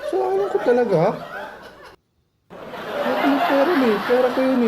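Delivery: high, incredulous "my fault, really?"; indignant disbelief. Acted. Debtor outraged at being blamed by the lender, high indignant disbelief. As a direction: throw the blame back in disbelief.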